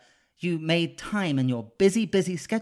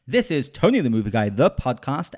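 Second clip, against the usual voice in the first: "Tony the Movie Guy" in a lower, louder radio announcer voice; 3 semitones lower, 4 dB louder than usual. Pretend. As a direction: boom the show name like a radio promo. Show name repeated as announcer.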